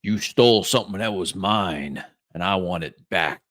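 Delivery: flat robotic ship voice; mechanical voice. Acted. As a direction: speak like a machine. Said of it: "a mechanical voice answers".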